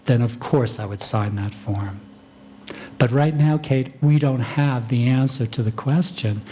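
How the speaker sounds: calm, kind doctor's voice; gently steer the patient, no edge; calm, compassionate. Shown as a demonstration. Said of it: "my voice tone, I am calm, it is compassionate".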